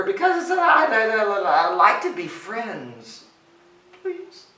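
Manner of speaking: high, pleading stammer; stuttering ogre. A narrator's reading. Little ogre asking goat for friendship, nervous stutter. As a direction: stumble over I, then plead. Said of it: "stuttered the little ogre".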